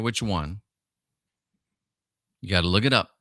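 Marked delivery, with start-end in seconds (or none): 2.4-3.2 whispered teasing aside; playful whisper to the audience. Real, not acted. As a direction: lean in and whisper the dare.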